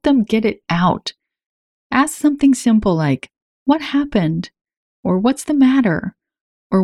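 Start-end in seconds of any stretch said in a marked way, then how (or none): 3.7-4.5 gentle question. Shown as a demonstration. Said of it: "Keep it gentle and inquisitive". 5.2-6.2 gentle question. Shown as a demonstration. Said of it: "Keep it gentle and inquisitive".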